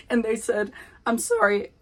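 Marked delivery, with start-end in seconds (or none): 1.1-1.7 voice crack. Real, not acted. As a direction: voice cracking on sorry. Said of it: "sorry for that voice crack".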